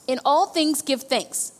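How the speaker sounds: slow, steady repeat of the verse; slow dictation repeated. Shown as a demonstration. Pastor repeating the verse for note takers, slow. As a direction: say it again slowly so they can write it. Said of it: "write in your notes".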